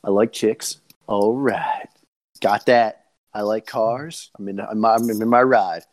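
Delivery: lightly imitated movie-star catchphrase voice; hint of a laid-back actor impression; Matthew McConaughey. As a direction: do a light impression of a character talking himself into it. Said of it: "McConaughey, man".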